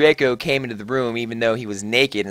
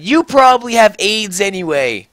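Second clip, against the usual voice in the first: angry shout; 6 semitones higher, 6 dB louder than usual. A narrator's reading. Angry breakup in the story.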